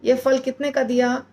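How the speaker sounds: haggling shopper asking the price; everyday bargaining question. Shown as a demonstration. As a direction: ask the vegetable seller casually. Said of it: "जैसे हम बोलते हैं ना".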